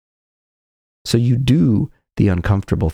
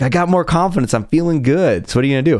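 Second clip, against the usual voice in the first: smug overconfidence; 6 semitones higher than usual. Pretend. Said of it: "It's like".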